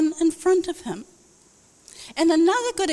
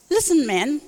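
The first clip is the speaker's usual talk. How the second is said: lightly imitated South African accent. Friend confronting the parking attendant, South African accent. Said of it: "he's South African, they speak like that".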